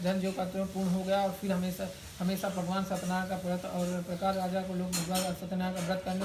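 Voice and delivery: rapid, even-pitched katha reading; scripture recitation. Acted. Priest reading the Satyanarayan katha to worshippers, rapid recitation. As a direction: rattle through the sacred story. Reads the katha aloud in ritual.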